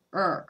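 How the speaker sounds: "う" said as a tensed English r, tongue cupped; R sound demo. Shown as a demonstration. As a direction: hold the tongue back and voice a strained "う". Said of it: "この底ら辺を力む。". (舌を力ませた英語のrの「う」)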